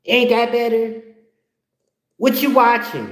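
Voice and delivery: high, rapid-fire nagging; nagging girlfriend. Retold or imitated. Girlfriend bossing her man off the ottoman, nagging. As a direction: pester him in a high-pitched voice. This girl comes in.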